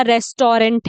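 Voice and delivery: "रेस्टोरेंट" as res-taw-rent; wrong pronunciation. Shown as a demonstration. Teacher imitating another common mistake, mispronounced "रेस्टोरेंट" with rent ending. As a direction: say "रेस्टोरेंट" with all three syllables. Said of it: "वो गलत हो जाता है".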